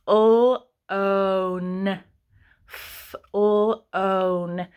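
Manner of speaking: "F-l-o-n" stretched slowly, sounds apart; sounding out. Shown as a demonstration. Teacher sounding out flown for kindergarteners. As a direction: sound out "F-l-o-n" bit by bit. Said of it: "my next word is gonna be flown".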